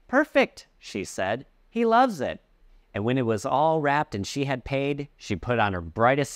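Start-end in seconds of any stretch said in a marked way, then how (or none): 0.1-0.7 high, louder eager yes; wife accepting the cheesecake, overbright; bright perfect. Acted. Wife answers grocer. 1.7-2.4 high, louder eager yes; wife accepting the cheesecake, overbright; bright perfect. Acted. Wife answers grocer.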